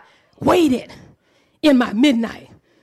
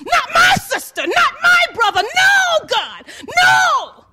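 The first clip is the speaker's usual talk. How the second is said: anguished cry; 9 semitones higher than usual. Retold or imitated. Preacher reliving news of a loss, crying out. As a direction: plead with God, voice breaking. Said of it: "I dropped and said".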